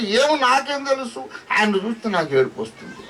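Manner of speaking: put-on high, bewildered little boy; a boy who cannot explain his tears, high; high child voice. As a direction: answer like a puzzled child, high. Child self answering, retold.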